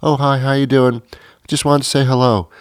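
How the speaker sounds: high, chirpy caller voice; cheery casual caller. Acted. Nobody calls at three a.m. just to say hello, cheery. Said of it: "wakes you up and says".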